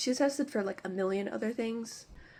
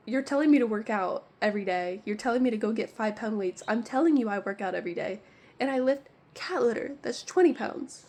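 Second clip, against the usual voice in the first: louder, exasperated rant at the doctor; annoyed rant; 4 dB louder than usual. Retold or imitated. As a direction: vent it like you're fed up with her advice. Ranting at the rheumatologist.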